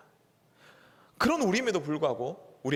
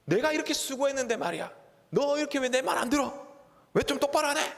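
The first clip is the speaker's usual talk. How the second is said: a husband's indignant lecture climbing higher; scolding husband; 5 semitones higher than usual. Retold or imitated. Pastor voicing a husband berating his wife, rising indignant. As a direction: brag then nag, pitch rising toward the end. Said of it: "남편이 아내에게 얘기합니다".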